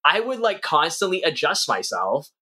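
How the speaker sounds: a real laugh breaking into the words. Real, not acted. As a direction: still giggling as the point comes out. Laughing at own story.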